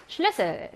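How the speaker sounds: 슐레셀 with a short 레; short vowel. Shown as a demonstration. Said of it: "짧은 발음이에요".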